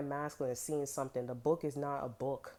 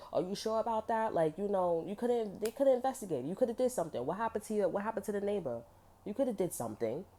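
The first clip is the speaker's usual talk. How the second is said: higher-pitched, insistent questioning; mock challenge; 5 semitones higher than usual. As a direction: press them like a doubting accuser. Voicing someone questioning another's story.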